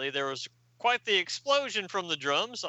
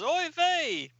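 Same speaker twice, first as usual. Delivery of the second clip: high, drawn-out mock dismay; acted exclamation; 12 semitones higher than usual. Host voices Cyborg's Oy vey, hammed-up exclamation. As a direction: wail it up high for comic effect.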